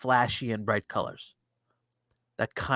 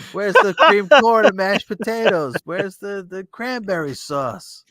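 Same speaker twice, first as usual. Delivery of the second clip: mock outraged rant, high and loud; Peppermint Patty; 8 semitones higher, 4 dB louder than usual. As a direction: go off in a hammed-up, high-pitched complaint. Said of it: "Peppermint Patty starts going off about".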